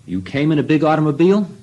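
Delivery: a teasing guru asking innocently; a hint of the sly old guru; guru's voice.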